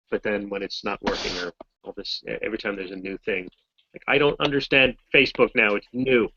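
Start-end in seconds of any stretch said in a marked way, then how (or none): 4.1-6.3 put-on louder, higher old-man grumble; grumpy old man. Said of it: "Grumpy old man".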